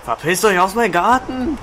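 loud angry yell; angry shout. Real, not acted. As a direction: yell them off your lawn. Chasing players from his garden.

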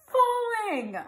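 loud, high cry with a long drawn-out last word; slow, soaring yell of warning; alarmed shout. A narrator's reading. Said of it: "he shouted".

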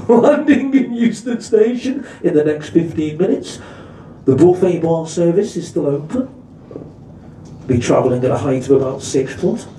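mock pilot-style tannoy announcement; train driver announcement. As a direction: deliver it like a smooth airline captain. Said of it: "the voice of the driver".

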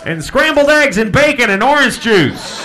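SCRAMBLED EGGS AND BACON hollered high and loud; big diner call, high-pitched and booming; yelled kitchen order. Shown as a demonstration. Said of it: "they yell it to the kitchen".

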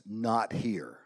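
curt, low biker order; a hint of the gruff biker. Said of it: "in his gruff voice".

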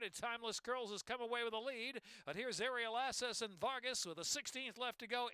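horse-race play-by-play building to a climax; race caller. Acted. Live horse race call.

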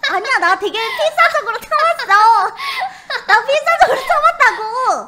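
loud laughing protest; stifled giggles. Real, not acted. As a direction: insist while cracking up. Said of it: "나라 한 번 웃었대요".

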